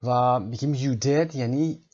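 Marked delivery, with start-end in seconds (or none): 0.8-1.4 "you did" rising, louder, slow; rising surprise on "you did"; surprised rise. Shown as a demonstration. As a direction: voice climbs in amazement on "you did". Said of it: "صدامون رو بردیم بالا".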